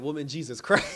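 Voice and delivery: exasperated Joker, breaking into a laugh; mock exasperation with a laugh; frustrated Joker. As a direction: act out fed-up exasperation, laughing midway. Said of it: "I felt the frustration in Joker".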